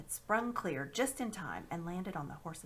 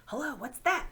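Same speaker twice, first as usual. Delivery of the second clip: sudden loud, higher exclamation; startled; 7 semitones higher, 8 dB louder than usual. Acted. Diggory hears galloping hooves, startled call. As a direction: jump at the noise.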